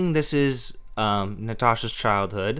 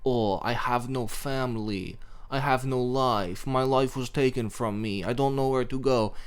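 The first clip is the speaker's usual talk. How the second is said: mock whining; 3 dB quieter than usual. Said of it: "every scene they're just like".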